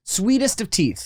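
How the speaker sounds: laughing. Real, not acted. Laughing repeat of nickname.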